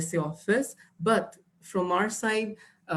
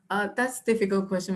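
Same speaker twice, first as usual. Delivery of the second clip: quick stalling candidate answer; hesitant examinee; faster than usual. Shown as a demonstration. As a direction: stall for time like a nervous student. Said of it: "don't use these two words".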